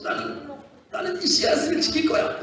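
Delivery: put-on playful childish voice of a seed clinging to itself; stubborn seed voice. Preacher voicing a seed for children, playful. Seed personified refusing to die.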